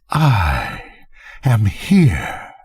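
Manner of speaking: a lightly voiced ghostly daughter, slow and even, each word separate; the dead mother speaking through the child, like a death knell; cold, calm and distinct. A narrator's reading. The nameless daughter answering from the vault floor, coldly calm. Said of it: "Distinct, coldly, calmly distinct".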